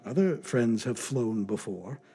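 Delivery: soft low mutter; a hopeless half-voiced mutter. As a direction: murmur it to yourself in despair. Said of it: "till I scarcely more than muttered".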